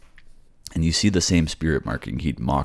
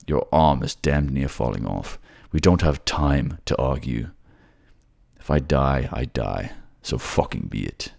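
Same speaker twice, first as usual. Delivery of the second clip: grim determined warrior. Acted. Companion tells Juno he is going down anyway, grim. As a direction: refuse to be talked out of it.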